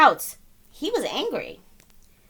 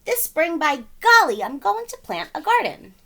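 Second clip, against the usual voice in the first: higher and louder, resolute; determined gardener; 7 semitones higher, 5 dB louder than usual. Acted. McGreely vowing to plant a garden, bold and resolute. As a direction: declare it like a vow. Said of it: "said Mister McGreely".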